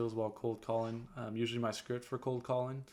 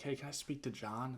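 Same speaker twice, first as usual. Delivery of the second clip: softer, hesitant plea to reach John; meek begging ask; 6 dB quieter than usual. Shown as a demonstration. Caller asking the receptionist for John, meekly begging. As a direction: ask as if you're begging a favour. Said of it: "sounds like you're kinda begging".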